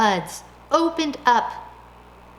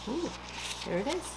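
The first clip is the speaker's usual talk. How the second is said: ordinary delivery, nothing marked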